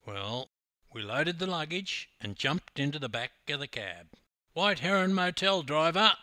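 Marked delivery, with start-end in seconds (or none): 4.5-6.2 loud, high commanding call; loud lordly order to a driver. A narrator's reading. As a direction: call the destination boldly to the cabbie. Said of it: "called Hammer".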